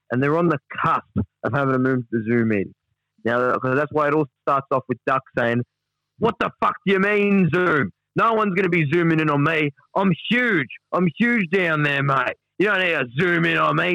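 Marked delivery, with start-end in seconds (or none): 6.2-13.9 higher-pitched mock indignation; indignant protest. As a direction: act out an affronted, incredulous objection. Voicing Duck's indignant protest from transcript.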